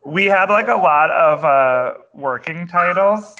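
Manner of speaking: talking while wrestling a dog; strained, restraining a dog mid-sentence; holding down a pet. Real, not acted. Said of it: "I'm also wrestling with my dog right now".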